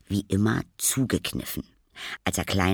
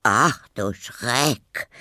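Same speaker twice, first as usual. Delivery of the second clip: put-on slow, raised cry of an old neighbour; dismayed cry; 4 semitones higher, 5 dB louder, much slower than usual. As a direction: draw out the dismay, louder and higher. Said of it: "rief Frau Wilhelm". (gedehnter Schreckensruf)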